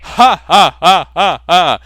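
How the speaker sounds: hammed-up laugh; fake laugh. Obama and John laughing at Garfield's joke, hammed-up laugh. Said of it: "said President Obama and John Arbuckle".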